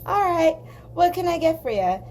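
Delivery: gruff Midwestern waitress. Retold or imitated. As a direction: play the tough diner waitress sizing her up. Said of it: "big, gruff Midwestern women".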